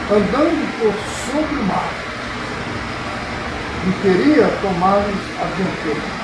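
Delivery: measured, solemn reading aloud; scripture reading. Acted. Pastor reading Mark's Gospel to the congregation, measured scripture reading. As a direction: read out the Gospel passage with deliberate phrasing. Reads the Bible passage aloud.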